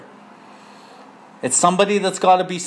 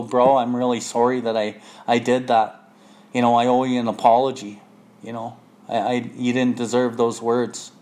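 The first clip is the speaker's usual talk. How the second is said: lower, humble apologetic voice; humble apology; 4 semitones lower than usual. Retold or imitated. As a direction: apologize sincerely, head bowed. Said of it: "I humbly, with humility".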